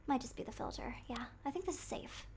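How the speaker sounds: soft unvoiced whisper. Real, not acted. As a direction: whisper it to yourself. Murmuring to self while checking.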